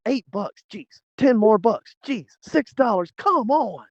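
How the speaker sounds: high-pitched, mock exasperation at rising costs; exasperated griping. Driver grumbling at every toll on the trip, exasperated. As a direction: gripe in a high, put-upon voice.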